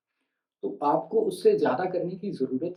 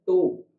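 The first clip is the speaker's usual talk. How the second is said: "तो" given extra stress; stressed syllable; 4 dB louder than usual. Shown as a demonstration. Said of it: "थोड़ी ज़्यादा stress उस पे दी जाती है".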